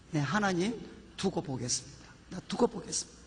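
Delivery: low, subdued reply to God; murmured vow, retold softly; retold prayer. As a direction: drop the voice into a quiet re-enacted prayer. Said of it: "돌아오면 기도했습니다".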